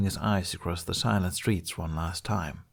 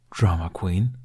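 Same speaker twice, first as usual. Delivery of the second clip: breathy mocking scoff; slower than usual. Toothless teasing Hiccup while trotting behind, mocking scoff. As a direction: tease him with a scoff. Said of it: "Toothless scoffed".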